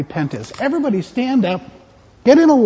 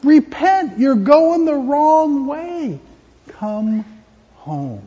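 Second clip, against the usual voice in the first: God tenderly calling home; gentle call home; 4 semitones higher, much slower than usual. Acted. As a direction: coax them back gently. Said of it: "And so God says".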